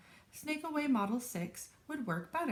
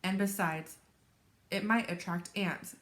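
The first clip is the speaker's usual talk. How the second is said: lively, expressive picture-book read-aloud; story narration. A narrator's reading. Teacher reads a chapter book to children, animated story narration. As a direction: read it to children with dramatic pauses.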